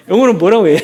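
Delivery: "영어로는" asked fast through laughter; laughing. Real, not acted. Preacher asks the congregation for the English, laughing. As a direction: laugh while asking again.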